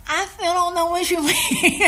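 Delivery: high helpless whine breaking into laughter; hammed-up plaintive squeal with a laugh; mock wailing. Rattled hopeful answers the executive, laughing mock wail.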